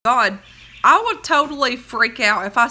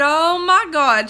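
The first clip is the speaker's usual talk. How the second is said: slow, high, louder mock wail; retold crying; 5 semitones higher, 5 dB louder, slower than usual. Retelling grandma crying over rats, hammed-up wail. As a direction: draw it out like a distressed grandmother. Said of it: "she was literally crying".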